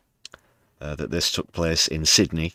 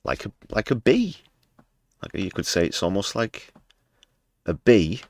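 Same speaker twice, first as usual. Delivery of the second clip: sarcastic; 4 semitones higher than usual. Acted. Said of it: "This is all sarcasm".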